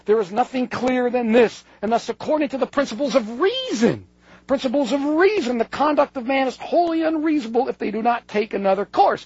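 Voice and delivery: quotation reading. Acted. Lecturer quoting Pascal on death and eternity, emphatic reading.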